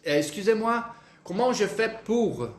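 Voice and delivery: careful French excusez-moi, comment je fais pour, slowed; a learner's polite question; French phrase demo. Shown as a demonstration. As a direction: say it clearly in French. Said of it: "É assim, ó".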